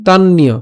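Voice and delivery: "তান্নীয়" joined, doubled n into "iyo"; said as one word. Shown as a demonstration. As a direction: run "তান্নীয়" together as tan-niyo. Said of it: "একসাথে উচ্চারণ করি যদি".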